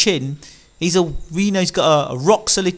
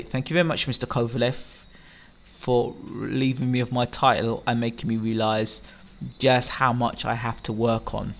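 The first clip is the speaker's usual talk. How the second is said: slightly hushed, softer voice; quiet, humble thanks; 3 semitones lower, 6 dB quieter than usual. Pretend. Pretending to be the beaten boxer thanking his conqueror, quietly. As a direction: thank him quietly and modestly. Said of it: "very quietly say".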